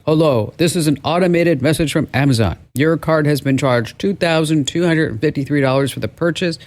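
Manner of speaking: lightly imitated automated phone message; a hint of robot, measured and even; robotic voice. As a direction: read it like a recorded scam call. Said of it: "there's a robotic voice that says".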